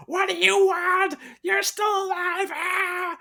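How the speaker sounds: high mock panicked yell; imitating screaming man. Friends retelling the cartoon hero's freakout, high mock yell. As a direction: shriek like he has totally lost it. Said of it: "he's just like".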